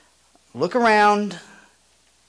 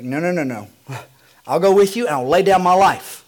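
louder insistent vow; a touch of Peter protesting; 5 dB louder, faster than usual. Acted. Peter insisting to Jesus he will die for him, mildly louder. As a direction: plead your loyalty. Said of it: "Peter's not having any of it".

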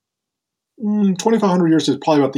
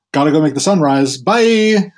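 breezy farewell; 3 semitones higher, 4 dB louder than usual. Retold or imitated. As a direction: skip off cheerfully at the end. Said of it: "he says to her".

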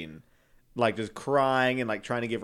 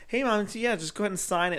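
put-on sneaky kid; 9 semitones higher than usual. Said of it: "I was like".

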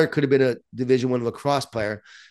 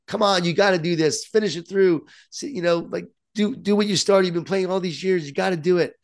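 higher, insistent pushing dad; pushy sports parent; 5 semitones higher than usual. Pretend. Parent pressing daughter to finish lacrosse, insistent and higher. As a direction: lean on her to keep playing. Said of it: "I could have, like".

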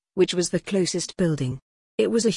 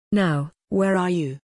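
lightly voiced gruff old creature, barely shifted; a hint of an old grump echoing the question; mild gruff mimicry of a question. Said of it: "in the gruff old-sounding voice".

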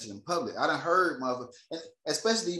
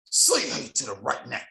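retold mother's order; 5 dB louder, slower than usual. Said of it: "His mom said".

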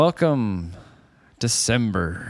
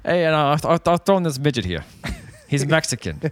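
toothless Jersey clerk; mumbled Jersey accent. Pretend. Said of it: "bad Jersey accent".

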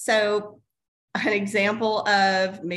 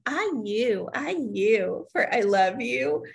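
put-on slow toddler voice; 3 semitones higher than usual. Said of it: "She was like".

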